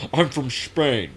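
slow, lightly Scottish quote; a hint of Connery saying Spain; Highlander line. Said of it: "that part of Highlander".

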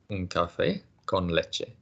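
slow, careful "un café con leche" said for repeating; slow model phrase. Shown as a demonstration. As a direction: spell it out slowly for the learner. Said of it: "So a coffee with milk".

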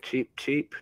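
tiny chirping noise; squeaky cheep as an ant; ant impression. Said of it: "Who can do the best ant sound effects?".

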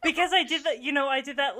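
laughing out the words; giggling as she tells it; laughing through it. Real, not acted. Laughing while telling her friend the story. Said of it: "laughing while telling".

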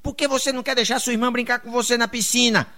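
bronca encenada de mãe, mais aguda; mãe braba. Acted. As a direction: cobre o menino com leve braveza. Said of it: "a mãe foi lá braba". (mãe braba ralhando, tom agudo)

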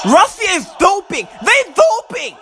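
insistent, rising complaint; indignant accusation. Real, not acted. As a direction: accuse the opponents like a sore loser. Accusing opponents during match.

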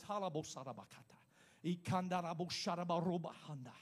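low, soft flow of tongues; speaking in tongues. Shown as a demonstration. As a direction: slip into praying in tongues. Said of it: "about to show you what happens to me".

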